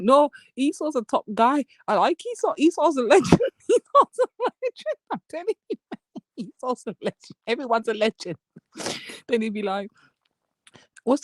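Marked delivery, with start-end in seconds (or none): 0.0-8.4 mock Captain. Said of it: "Captain's like".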